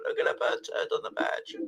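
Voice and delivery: words gasped out laughing; airy laughing line; breathless laughter. Real, not acted. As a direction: wheeze it through the giggles. Laughing at meme.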